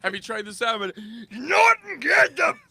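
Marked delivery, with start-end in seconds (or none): 1.3-2.6 higher, louder mock command; mock shout. Boss ordering guard to grab crasher, shouting. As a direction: bark like a boss ordering security.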